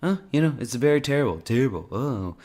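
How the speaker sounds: Trump impression. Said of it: "And now he's saying".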